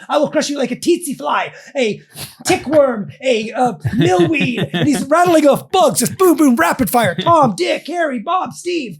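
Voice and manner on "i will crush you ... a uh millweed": higher fake Russian accent, mild mock yell; mock Russian screaming. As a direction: rattle off bugs as a cartoon Russian. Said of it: "he's screaming at my phone".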